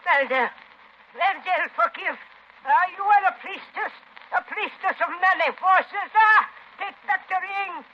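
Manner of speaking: frightened pleading. Acted. Old woman begging the priestess for mercy in terror. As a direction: grovel and plead for forgiveness.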